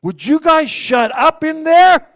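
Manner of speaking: high, loud, slow call, laughing; loud laughing mock complaint; calling out annoyed. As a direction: yell through the closet door. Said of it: "I'm like".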